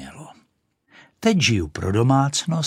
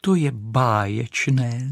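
delighted cry; 2 semitones higher, slower than usual. Acted. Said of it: "zvolala Raketa".

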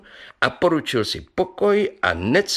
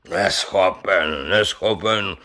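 "Neschopen" drawn out, slow and insistent; stubborn repetition; 5 semitones lower, slower than usual. Acted. Brewer stubbornly insisting a carp can't talk. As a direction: dig in on "neschopen". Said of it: "bránil se houževnatě Pivoňka".

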